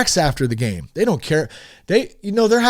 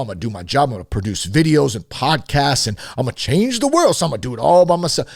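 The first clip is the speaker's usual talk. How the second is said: man voice. Acted. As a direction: brag like a stubborn man who needs no help. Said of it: "let's try this man voice".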